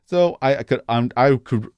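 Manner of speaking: real stutter, stumbling over words; halting restarts on the first word. Real, not acted. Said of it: "I'm stuttering, stuttering all over the place".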